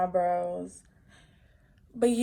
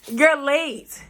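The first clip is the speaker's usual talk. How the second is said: mock scolding; 4 semitones higher, 5 dB louder than usual. Scolding late mom playfully.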